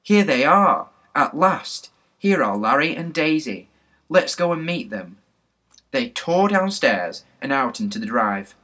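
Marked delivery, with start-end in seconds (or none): 0.0-5.2 high, loud delighted cry; excited yell. A narrator's reading. Betts spots her friends arriving at last, excited yell. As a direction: call out eagerly, pitched up. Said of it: "she gave a yell".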